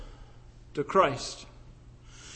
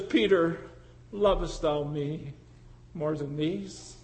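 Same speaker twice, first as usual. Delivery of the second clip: gentle question; 5 semitones lower, 8 dB quieter than usual. Retold or imitated. Jesus gently asks Peter.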